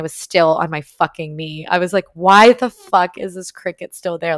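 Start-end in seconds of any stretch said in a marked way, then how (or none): 2.1-4.4 louder, fed-up demand at a bug; exasperated outburst. Retold or imitated. Retelling her trip, she snaps louder at the cricket. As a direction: vent at the cricket that won't leave.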